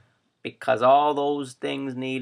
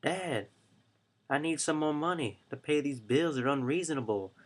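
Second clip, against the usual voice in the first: put-on college kid asking; 2 semitones higher, 6 dB quieter than usual. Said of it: "They're gonna be like".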